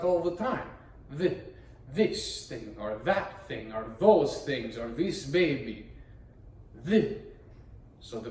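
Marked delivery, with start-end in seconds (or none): 1.2-1.4 "Th" sounded out alone; short demonstration of "Th" on its own; isolated th sound. Shown as a demonstration. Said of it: "That's an important sound". 6.9-7.2 "Th" sounded out alone, a bit louder; "Th" demonstrated on its own; isolated th sound. Shown as a demonstration. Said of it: "That's an important sound".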